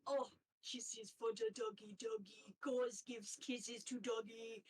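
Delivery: lightly voiced cooing otter, childlike; a hint of a creepy, doting otter; odd otter voice. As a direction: coo at the captive dogs like a strange pet owner.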